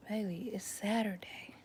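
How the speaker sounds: unvoiced sleepy whisper to a child. Mom to daughter on Saturday morning, whispered plea. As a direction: whisper it, half asleep, begging for rest.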